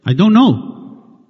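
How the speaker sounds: slow, drawn-out clueless husband voice; a lightly voiced puzzled husband. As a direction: play the oblivious husband shrugging it off. Husband answering upset wife.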